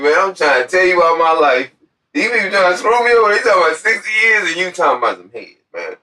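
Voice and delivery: retelling his angry outburst, fast; angry retort. Retold or imitated. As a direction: vent at him fast and loud.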